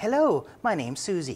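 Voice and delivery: high, artificial automated phone-line lady voice. Retelling calling Amtrak to make bookings, as the automated assistant, Amtrak Susie phone-lady voice. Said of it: "artificial intelligence lady".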